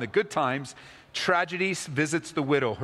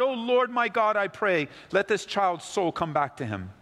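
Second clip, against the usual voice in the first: crying out to God; 8 semitones higher than usual. A narrator's reading. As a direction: cry out to the Lord for the child. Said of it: "he cries out to the Lord".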